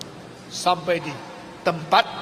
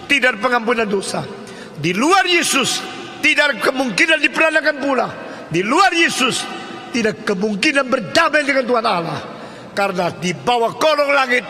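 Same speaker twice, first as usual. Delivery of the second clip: fervent preaching; 4 semitones higher than usual. Acted. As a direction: proclaim each name like a climax. Preacher building to climax.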